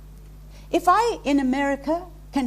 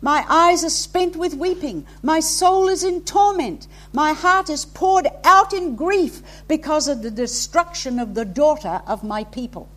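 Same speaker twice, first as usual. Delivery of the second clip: impassioned lament; 4 dB louder than usual. Acted. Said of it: "Listen to it".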